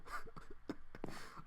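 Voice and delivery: shaky laugh. Real, not acted. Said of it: "scared the crap out of me".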